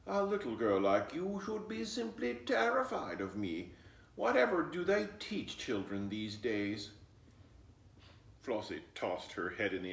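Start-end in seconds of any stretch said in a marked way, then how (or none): 0.1-6.9 disgusted. Acted. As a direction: talk down to the child with disdain. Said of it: "sounding right disgusted".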